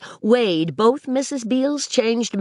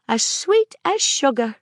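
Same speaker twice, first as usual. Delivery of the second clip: eager cry; 7 semitones higher than usual. Acted. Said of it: "cried Maisie".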